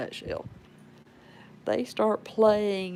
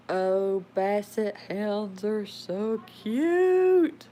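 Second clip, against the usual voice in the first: cooing; 2 semitones higher, 5 dB louder, much slower than usual. Real, not acted. Cooing at cute dogs.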